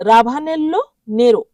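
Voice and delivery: রাভানেল্লো নেরো as a model, stress on রাভানেল্লো; repeat after me. Shown as a demonstration. Teacher leads class in repeating, model. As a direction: say রাভানেল্লো নেরো for learners to echo. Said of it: "আমার সাথে বলুন".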